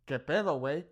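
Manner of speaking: mild mock confrontation, do we have a problem; angry challenge. Shown as a demonstration. Teacher acting out an angry stranger, mild mock threat. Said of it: "Like, I'm angry".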